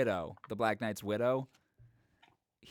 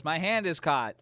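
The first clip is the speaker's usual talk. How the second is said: acted cry of alarm; 5 semitones higher, 4 dB louder than usual. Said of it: "He goes".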